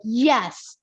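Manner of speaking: emphatic rallying cry; confident energy. Retold or imitated. Trainer wanting clients to feel able, confident energy. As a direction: punch out "go" with confidence. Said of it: "like, that energy of confidence".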